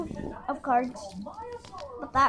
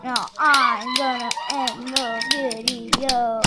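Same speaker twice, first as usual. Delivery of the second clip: slow villain voice; 6 dB louder, slower than usual. Acted. Slow loud villain declaration.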